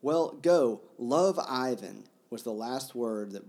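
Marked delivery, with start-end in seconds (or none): 0.0-2.1 emotional outburst. Acted. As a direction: let the relief spill out. Reading Mitya's emotional farewell.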